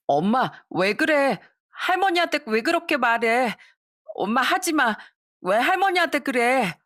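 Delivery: put-on high, pleading child's voice; a child begging mom to stop; upset child. Children protesting to mother. (엄마에게 따지는 아이의 높은 목소리)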